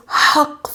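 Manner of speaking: "حق" with a voiceless, airy first sound; breathy Arabic ha. Shown as a demonstration. Teacher asks what the word means, breathy voiceless ha. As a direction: let air rush out to begin "حق". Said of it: "practice on pronouncing your ha".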